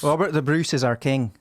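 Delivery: put-on Scottish accent. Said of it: "Wow. ... roll their O's".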